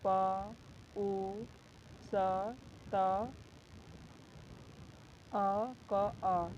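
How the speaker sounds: प, उ, स, त, अ, क, अ spoken as separate sounds with pauses; sounding out पुस्तक. Shown as a demonstration. Teacher to class, breaking पुस्तक into its sounds. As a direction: split the word into single sounds. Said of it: "पुस्तक में भी ऐसे ही".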